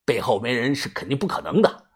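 a hint of a hushed warning; quiet aside. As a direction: murmur it just for your friend. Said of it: "小声的对我说".

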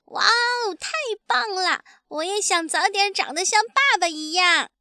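put-on very high child's wonder; thrilled baby dinosaur. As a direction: gush in awe of daddy. Baby admires father's skill. (小恐龙兴奋崇拜地惊叹)

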